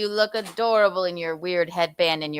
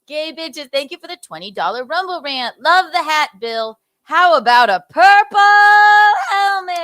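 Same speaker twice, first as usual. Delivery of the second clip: hammed-up announcer read; 6 semitones higher, 9 dB louder than usual. Rereads the rant, hammed up.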